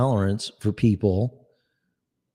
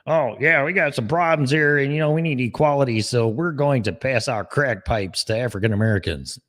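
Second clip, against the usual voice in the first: mock official; 4 semitones higher than usual. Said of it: "I mean, please".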